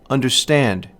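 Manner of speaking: "understand" with two light syllables, then stressed "stand"; anapestic stress. Shown as a demonstration. Lecturer giving an example of an anapest, "understand" stressed on "stand". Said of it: "rhythm of the anapest".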